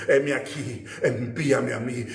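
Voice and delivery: low, subdued declaration; solemn answer. Acted. Preacher voices Christ accepting the mission, low and solemn. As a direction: say it low, as a sober pledge.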